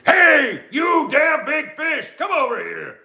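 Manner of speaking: high, loud taunting shout; captain shouts the shark toward himself, loud high taunt; yelling at the shark. Acted. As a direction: yell to lure the fish. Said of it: "He began yelling at it".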